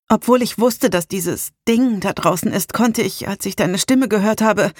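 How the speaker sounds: lightly voiced Salem, emotional and urgent; a hint of a distressed young woman pleading; Salem, shaken.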